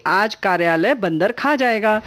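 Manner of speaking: slow, "बंदर" as one word, then "खा जाएगा"; misread word break. Shown as a demonstration. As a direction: join "बंदर" and set "खा" apart. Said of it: "थोड़ी सी भी गड़बड़ हो गई".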